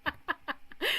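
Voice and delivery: high-pitched, cracking up; real laughing. Real, not acted. Streamer cracking up at his friend's boast, laughing. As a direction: squeeze the words out through real laughter.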